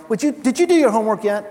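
nagging parent. Acted. Parent checking on child's homework, mock nagging. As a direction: nag a kid about chores, briskly.

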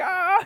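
short, high mock cry of effort; straining cry. Parent wrestling a locked toilet, mock straining cry.

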